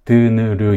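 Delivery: loosen T into an effortless "드느르"; weakened T. Shown as a demonstration. Teacher showing how T weakens, easy relaxed "드느르". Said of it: "이렇게 좀 발음하기 편한 발음으로 약해지든지".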